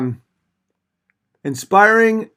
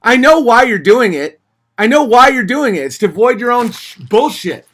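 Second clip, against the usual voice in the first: exasperated scold; 3 semitones higher, 4 dB louder than usual. Real, not acted. Scolding a donor.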